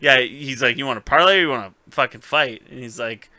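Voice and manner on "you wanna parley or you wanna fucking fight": mock tough retort. Bronn's retort, acted fast.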